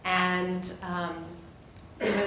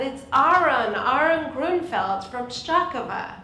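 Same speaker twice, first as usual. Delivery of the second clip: louder, higher, imitating an old man on the phone; raised phone voice; 5 semitones higher, 4 dB louder, slower than usual. Dad announces himself to his childhood friend by phone, loudly. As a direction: project slowly for a hard-of-hearing listener. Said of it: "two ninety-somethings talk on the phone".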